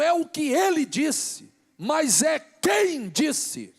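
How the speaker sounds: loud, high, impassioned preacher shouting to the church; fervent sermon climax, nearly shouted; preaching at full force. Acted. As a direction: build to fiery pulpit preaching, hammering each phrase.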